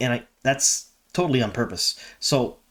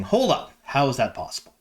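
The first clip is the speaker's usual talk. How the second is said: imitating a stunned fan, high; mock disbelief from a viewer; surprised viewer; 3 semitones higher than usual. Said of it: "a lot of you out there saying".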